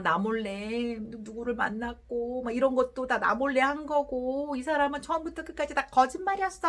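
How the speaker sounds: mock distressed spouse spinning a drama, speeding up at the end; lightly acted hurt, rushing into accusation; anguished imagining. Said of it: "드라마를 쓰면서 혼자 굉장히 괴로워할".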